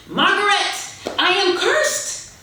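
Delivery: a hammed-up old man crying out; melodramatic lament. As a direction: play the cursed father for laughs. Father laments dying orchids.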